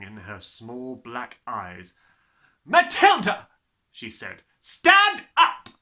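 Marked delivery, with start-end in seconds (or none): 2.7-3.5 furious bark. A narrator's reading. Headmistress roaring at Matilda, loud and high. Trunchbull barks her name. 4.6-5.7 loud, barked order; furious command. A narrator's reading. Headmistress ordering Matilda up, barked loud.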